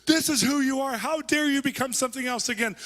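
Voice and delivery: high, loud, slow furious yell; outraged shout. Retold or imitated. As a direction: scold him at full volume, right in his face. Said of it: "She's, like, going".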